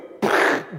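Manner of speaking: loud mouth-made blowing-away sound; voiceless, comic obliteration noise; imitated blast noise. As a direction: blow them away with a burst of air. Imagined God wiping out the Egyptians.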